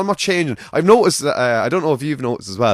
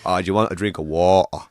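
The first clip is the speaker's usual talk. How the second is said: teasing mock Navan accent, a little lower; exaggerated Navan accent; 4 semitones lower than usual. Auntie teasing the kids about water, exaggerated Navan accent. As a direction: lightly send up the Navan accent. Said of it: "she'd exaggerate it even more".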